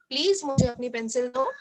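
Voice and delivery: sweet rising please; polite request. Shown as a demonstration. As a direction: ask as nicely as you can. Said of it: "हमको उसको बोलना है".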